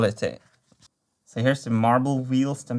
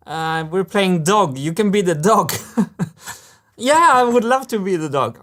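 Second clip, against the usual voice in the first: put-on lightly raised, childlike voices of machine parts squabbling over a game of dog; playful toy voices; 5 semitones higher, 3 dB louder than usual. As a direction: voice the parts like kids in a playground, lightly higher. Voices the parts as playing characters.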